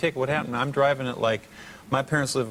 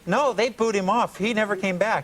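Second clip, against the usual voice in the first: imitating insistent girl; 6 semitones higher than usual. Girl correcting the singer about the tape, mock insistent. Retelling the girl's alarmed answer.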